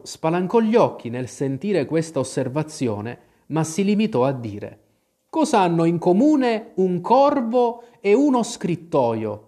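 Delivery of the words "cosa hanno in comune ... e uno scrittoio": high-pitched character voice for the Hatter; higher, lilting questioner; Hatter posing riddle. A narrator's reading. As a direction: pose the riddle in a raised, put-on voice.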